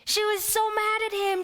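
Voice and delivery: high indignant She was so mad at him. Acted. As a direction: lift the voice high on so. Repeating Mary's anger, higher.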